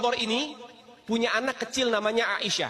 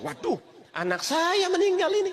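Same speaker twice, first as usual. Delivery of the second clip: a sudden high cry of alarm; shocked dismay; 11 semitones higher than usual. Acted. Father realising his own words killed his child, cries out in high shock. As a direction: gasp it out as the horror sinks in.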